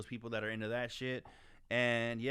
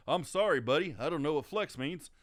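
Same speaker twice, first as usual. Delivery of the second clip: mock meek apology; 2 semitones higher, 3 dB louder than usual. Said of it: "you think I'm over here like".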